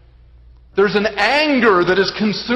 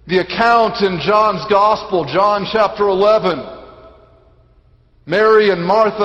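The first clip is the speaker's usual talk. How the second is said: raised, forceful sermon delivery; emphatic preaching; 4 semitones higher, 5 dB louder than usual. Real, not acted. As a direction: proclaim it with weighty emphasis. Preacher retells the Gospel.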